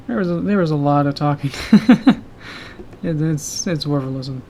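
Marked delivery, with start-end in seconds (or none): 1.6-2.2 laugh. Real, not acted. Laughing at own joke.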